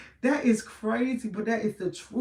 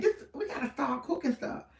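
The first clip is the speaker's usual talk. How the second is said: laughing; 4 semitones higher, 5 dB quieter than usual. Retold or imitated. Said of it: "I said".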